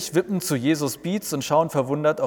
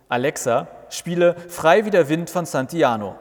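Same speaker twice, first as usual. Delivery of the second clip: calling to Alexa; 4 semitones higher, 4 dB louder than usual. Acted. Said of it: "Martin ruft".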